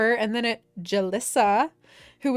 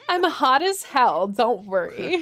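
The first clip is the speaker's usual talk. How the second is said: laughing; 3 semitones higher, 3 dB louder, slower than usual. Real, not acted.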